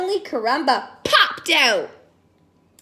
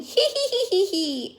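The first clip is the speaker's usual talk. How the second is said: high playful "hee hee" giggle, sliding down; light teasing cat giggles, starting high; giggling; 5 semitones higher than usual. Acted. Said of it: "The cats flew away giggling".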